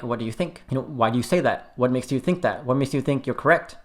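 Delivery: soft, curious, gentle questions; calm, open-ended asking; gentle questioning. Shown as a demonstration. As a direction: ask softly, like water on fire. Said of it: "say it in the most gentlest way possible".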